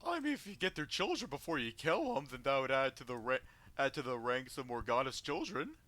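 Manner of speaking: a hint of a gleeful hag; lightly voiced sly hag; hag character voice.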